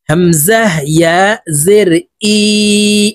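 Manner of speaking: "হামজাহ" with a firm catch, slowly spelled; firm hamza. Shown as a demonstration. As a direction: hit the hamza in "হামজাহ" hard, then draw out "ই". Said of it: "হামজা শক্তভাবে উচ্চারণ করতে হবে". ("হামজাহ" শক্তভাবে উচ্চারণ)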